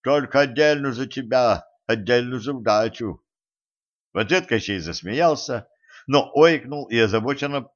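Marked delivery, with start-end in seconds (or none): 0.0-3.2 lightly lisped speech of a beaten fighter; a touch of slurred sibilants; lisping. A narrator's reading. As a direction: lisp through a sore jaw. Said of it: "прошепелявил Тим".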